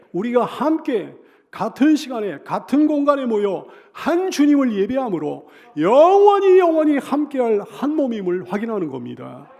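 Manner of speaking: high, loud, swelling proclamation; full-force preaching. Real, not acted. Preacher proclaiming one body in worship, loud and soaring.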